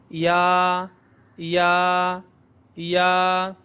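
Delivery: یا as a drawn-out ya; ia sound. Shown as a demonstration. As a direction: hold the open a of یا. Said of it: "آئی اے کی آواز ہے". (یا کی لمبی، کھلی آواز)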